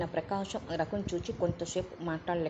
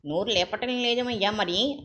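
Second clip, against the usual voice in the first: louder taunting question; challenging; 4 semitones higher, 5 dB louder than usual. Acted. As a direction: push the silent son to speak. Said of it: "Raghu ప్రశ్నించాడు".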